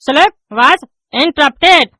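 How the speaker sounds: drags out each English word; slow halting reading. Acted. Pupil reading aloud to the teacher, very slow. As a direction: reads word by word like a struggling pupil.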